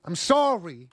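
mock seductive plea; hammed-up sultry apology. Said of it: "She's like".

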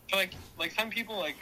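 nervous stammer, repeating words; stuttering. Real, not acted. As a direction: stumble over the words. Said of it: "oh, God, I'm stuttering".

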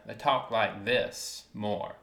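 slow Savannah, Georgia drawl. Shown as a demonstration. Showing a friend how Savannah talks, slow drawl. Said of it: "they have more of a drawl almost".

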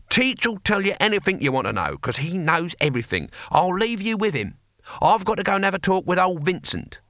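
put-on high-pitched, brisk old warrior; Cohen, old barbarian. A narrator's reading.

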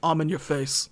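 lightly voiced low tough guy; low Vin Diesel voice. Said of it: "And Vin goes".

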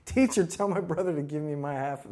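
a hint of a grabby crowd voice; mock demanding heckler. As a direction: lightly act out the man's demand. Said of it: "someone in the crowd yells out to him".

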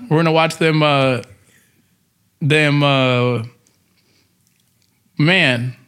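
put-on light country rancher accent; easygoing cowboy storyteller voice; rancher twang. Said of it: "please do your rancher voice".

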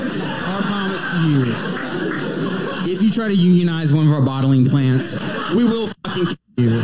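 "Our promise to you" turned lightly menacing, the threat rattled off fast while laughing; sweet corporate promise that becomes a threat; evil brand promise. Pretend. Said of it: "an evil version of those two little sections".

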